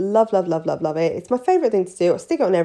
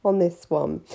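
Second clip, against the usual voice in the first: higher, tempting sales voice; coaxing nail tech; 6 semitones higher than usual. Retold or imitated. Nail tech tempting a timid client into nail art, high and coaxing. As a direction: dangle it like a treat. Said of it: "I'd be like".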